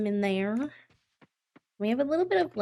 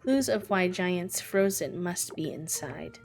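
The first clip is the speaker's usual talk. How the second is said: lightly voiced giant chieftain. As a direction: read the chieftain's lines with grave weight.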